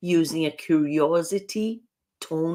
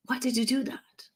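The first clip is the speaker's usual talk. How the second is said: higher, accusing demand; challenging why; 8 semitones higher, 5 dB quieter than usual. Shown as a demonstration. Coach demonstrating a question that makes people defensive, accusing. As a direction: put them on the spot. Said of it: "I am asking you to explain yourself".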